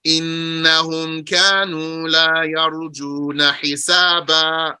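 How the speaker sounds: measured chanted recitation of the verse; Quran recitation. Acted. Teacher reciting the verse to his class. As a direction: recite it like scripture.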